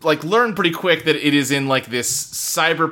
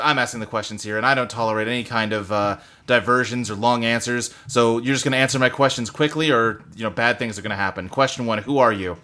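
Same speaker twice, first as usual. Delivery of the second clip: quick, slightly lowered, no-nonsense questioning; mild interrogator voice; 3 semitones lower, faster than usual. Acted. Game's library lady questioning a newcomer, lightly voiced brisk interrogator.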